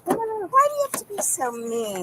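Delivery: plaintive complaint. Real, not acted. Detainee complaining to the arresting officer, whining. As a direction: plead as if wronged.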